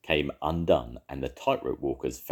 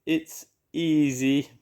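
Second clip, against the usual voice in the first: high, slow cooing owl voice; 10 semitones higher, 3 dB louder, much slower than usual. A narrator's reading. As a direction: coo it slowly and sweetly. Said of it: "she cooed".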